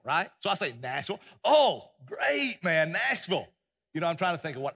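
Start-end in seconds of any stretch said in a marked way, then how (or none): 1.4-3.5 a quick, hammed-up Russian accent, higher and louder; mock Russian accent. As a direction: toss off a cheerful foreigner's line in a jokey Russian accent. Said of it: "That sounded like a Russian probably".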